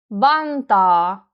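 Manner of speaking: front-stressed "Vantaa", long final A; stronger first syllable. Shown as a demonstration. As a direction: lean on "Van" in "Vantaa". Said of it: "first syllable is stronger".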